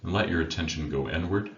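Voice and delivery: unhurried meditation guide with long pauses between phrases; guided meditation. Acted. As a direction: guide listeners inward, leaving silence after each instruction. Leads a meditation.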